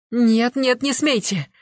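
high, loud, panicked shout; screaming. A narrator's reading. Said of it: "закричала Нюта".

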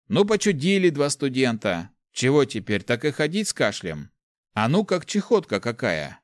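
a mild brash peasant ribbing; lanky lad. Acted.

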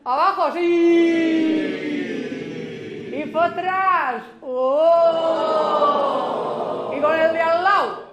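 pen in teeth. Shown as a demonstration. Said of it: "con el boli en la boca".

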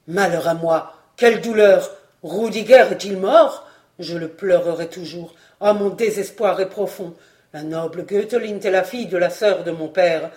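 plainte douloureuse, plus forte; un seigneur qui pleure son fidèle ami; lamentation. Acted. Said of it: "Il se prit à pleurer". (lamentation forte et douloureuse)

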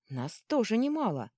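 high, ringing rallying call; ringing cry. A narrator's reading. Girl rallies party against pursuers, ringing high cry. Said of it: "звонко выкрикнула Вителья".

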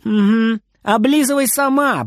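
ordinary delivery, nothing marked

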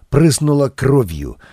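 ordinary delivery

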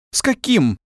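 high, sharp irritated question. A narrator's reading. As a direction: snap back, annoyed. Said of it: "сказала она раздражённо". (высоко, раздражённо)

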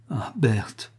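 cri retenu, plutôt doux; s'écrier. A narrator's reading. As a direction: laisse échapper le nom, ému. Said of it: "s'écria Max". (Max bouleversé s'écrie)

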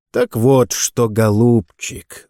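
deceptively soft. Acted. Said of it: "с обманчивой мягкостью сказал капитан".

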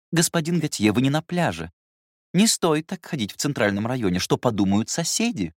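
high, mildly reproachful nanny; lightly voiced governess. Governess scolding the young master for going half-naked, high voice. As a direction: scold him gently for his manners.

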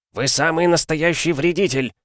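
high, angry accusing yell; yelling commissar. Acted. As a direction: scream the accusation at the soldier. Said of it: "орал особист".

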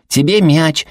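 put-on high, loud kid's call; boy shouting during a game; child shouting. A narrator's reading. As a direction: yell the pass at her. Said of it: "крикнул Сэл".

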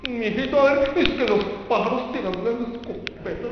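a hint of a lecturing old man; mock patronizing elder. Imitating an elder lecturing a child, lightly voiced. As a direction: talk down to the kid. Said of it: "¿Pero qué nos decían?".

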